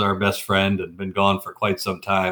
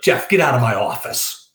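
fired-up boss; 4 semitones higher than usual. Retold or imitated. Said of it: "I mean, he's fired up".

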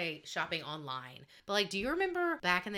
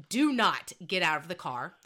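lightly voiced stern mom, louder; serious mom; 6 dB louder than usual. Mom ordering her daughter to stay, lightly acted stern voice. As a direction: give a firm order with a hint of mom. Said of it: "my mom looks at me and she's so ser".

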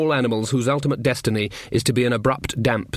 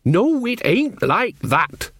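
exasperated; 8 semitones higher, much slower than usual. Acted. Nanny corrects her son.

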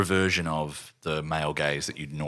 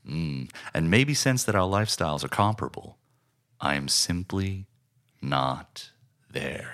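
quoted monologue. Retold or imitated. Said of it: "as he says from the start".

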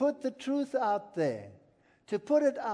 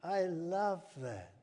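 ordinary delivery

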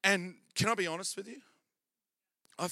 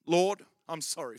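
mock penitent prayer; 2 semitones lower than usual. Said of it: "and we say".

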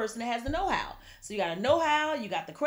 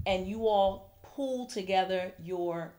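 talking through a yawn; 3 semitones lower, slower than usual. Real, not acted. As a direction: yawn while speaking. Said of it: "can you stop yawning?".

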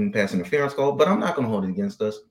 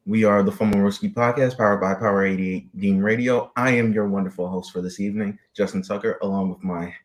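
announcer voice; 2 semitones lower than usual. Acted. Podcast host's formal intro.

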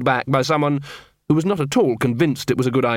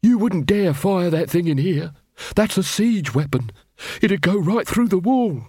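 higher, put-on protesting voice; alarmed armourer; 5 semitones higher than usual. Armourer with a siege bow at his neck, alarmed protest. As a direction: protest in a raised pitch as the threat sinks in.

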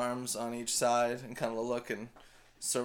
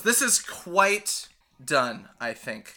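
Koba voice; 3 semitones higher, 5 dB louder, slower than usual. Acted. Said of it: "And Koba goes".

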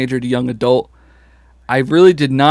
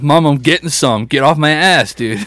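put-on defiant teen; 3 semitones higher, 4 dB louder than usual. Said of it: "basically translating".

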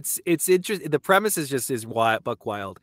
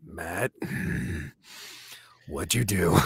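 lower, annoyed voice; mock angry friend; 7 semitones lower, 3 dB quieter, slower than usual. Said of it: "so I'll probably get a".

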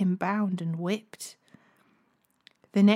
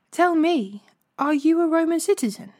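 urgent questioning; 7 semitones higher than usual. A narrator's reading. Commander questions Paul about citizenship, urgently. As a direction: press for an answer, pitch raised.

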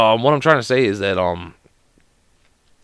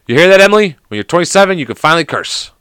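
louder, higher call to a daughter; 7 semitones higher, 6 dB louder than usual. Pretend. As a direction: call it out as an announcement to your kid. Calls out to his daughter Emily.

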